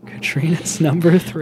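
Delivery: slow mock announcer build-up; drawn-out announcement. Shown as a demonstration. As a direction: stretch it out to fill time. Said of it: "preface every announcement like this".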